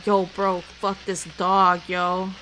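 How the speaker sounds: rowdy gamer trash talk; gamer bro voice. Pretend. Showing how Bluma sounds while gaming, loud bro yell. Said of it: "me during the games".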